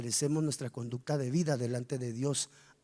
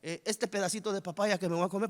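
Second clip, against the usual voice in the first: mock grace; 3 semitones higher than usual. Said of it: "Y en la noche".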